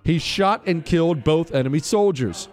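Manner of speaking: formal citation read over music; crisp military citation. Acted. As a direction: read it like an official military commendation. Continues reading the citation.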